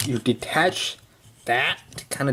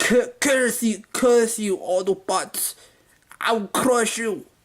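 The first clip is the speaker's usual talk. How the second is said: put-on Russian accent, much higher; 8 semitones higher than usual. Voicing the German guy's lines while describing the scene, in a Russian accent. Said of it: "that was a Russian accent".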